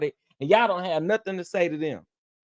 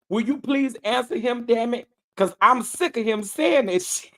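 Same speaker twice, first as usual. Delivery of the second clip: higher-pitched mock exasperation, amused underneath; retold irritation; 5 semitones higher than usual. Retelling an angry viewer's comment to Sheila, mock fed-up. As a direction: quote her fed-up demand with mild heat. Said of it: "she was hot at me".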